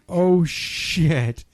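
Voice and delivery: retold panic, loud and high; alarmed curse. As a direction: blurt it as the glasses slip. Panic as glasses fall.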